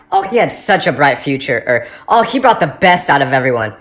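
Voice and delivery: lightly voiced solemn mourner; mock eulogy. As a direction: sigh it like a clichéd eulogy. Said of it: "the same thing they always say".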